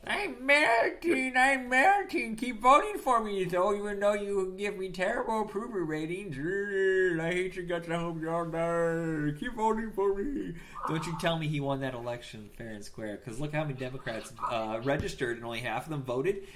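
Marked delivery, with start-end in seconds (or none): 0.1-10.5 high, drawn-out melodramatic wail; melting politician. Acted. Host playing a politician melting on television, hammed-up wail. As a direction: wail slowly as if melting away. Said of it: "If he starts melting away live".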